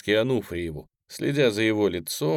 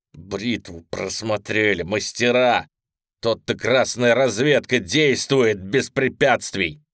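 mocking taunt; 5 dB louder, slower than usual. Prisoner mocking the guards.

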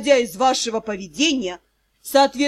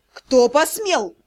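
mock anger; slower than usual. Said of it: "демонстративно гневно вопросил Дроу".

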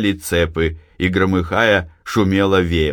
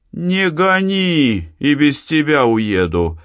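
calm; 8 semitones higher, slower than usual. A narrator's reading. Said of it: "спокойно проговорила Анна".

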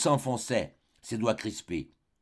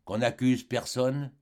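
slow, stunned reading; husband reading the poison note aloud, stunned and slow; slower than usual. Acted. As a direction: read it slowly in disbelief. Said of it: "lut tout haut".

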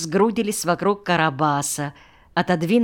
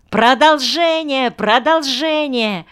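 high, loud pleading calls; children shouting; 8 semitones higher, 5 dB louder than usual. A narrator's reading. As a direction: clamour like excited children. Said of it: "закричали дети".

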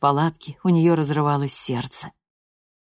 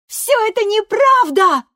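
much higher and louder furious yell; 8 dB louder than usual. A narrator's reading. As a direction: hurl it at her mother. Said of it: "заорала Лореда".

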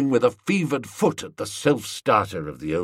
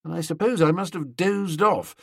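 usual speaking voice

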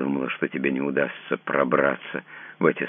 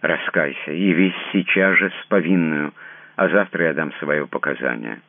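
louder and higher, unyielding; firm resolute declaration; 5 semitones higher, 5 dB louder than usual. A narrator's reading. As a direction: she commands him to confess. She declares her resolve.

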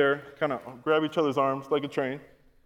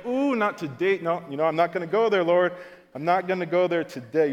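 mock rising irritation; 3 semitones higher, 5 dB louder than usual.

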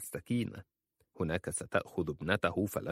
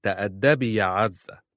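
louder, firm reprimand; firm rebuke; 7 dB louder than usual. A narrator's reading. Aunt rebuking the insolent cousin, louder firm reprimand. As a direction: put her in her place. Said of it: "قالت خالصة في حسم".

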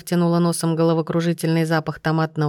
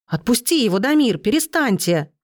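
high, pleading cry to stop the fight; frightened cry; 5 semitones higher than usual. A narrator's reading. Katya crying out at Damir and Andrea to stop fighting. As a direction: beg them to let go, scared.

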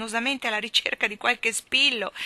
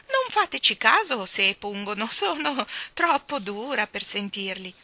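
lightly voiced old woman, a bit louder; a hint of the squawky old lady; 3 semitones higher, 4 dB louder than usual. Miss Calico reassuring the children, lightly voiced old lady. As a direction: lightly keep the hen voice.

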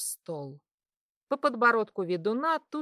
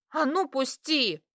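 sharp angry bark, pitched up; 5 semitones higher than usual. Acted. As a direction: snap it at him to let go. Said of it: "рявкнула я".

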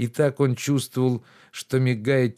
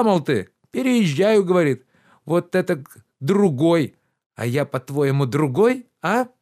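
higher, louder reproachful gentleman; lordly rebuke, pitched up and loud; indignant master Oblomov; 6 semitones higher, 5 dB louder than usual. Acted. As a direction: scold the servant with wounded pride. Oblomov lecturing Zakhar.

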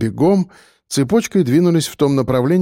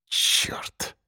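whispered curse through teeth; 10 dB quieter than usual. A narrator's reading. Narrator hearing the quad bikes, whispered curse. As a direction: hiss the curse under your breath. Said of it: "процедил я сквозь зубы".

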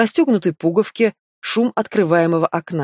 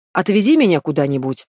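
ordinary delivery, nothing marked

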